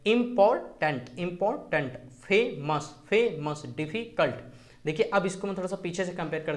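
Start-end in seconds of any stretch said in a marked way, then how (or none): 0.1-2.0 "इंपॉर्टेंट" split as इंपॉर-टेंट; deliberate two-part "इंपॉर्टेंट"; pause inside word. Shown as a demonstration. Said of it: "pause है". 2.2-3.6 "फेमस" split as फे-मस; two separate beats in "फेमस"; pause inside word. Shown as a demonstration. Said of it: "pause है". 3.8-4.4 "डिफिकल्ट" split as डिफी-कल्ट; brief gap before कल्ट in "डिफिकल्ट"; pause inside word. Shown as a demonstration. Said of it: "pause है".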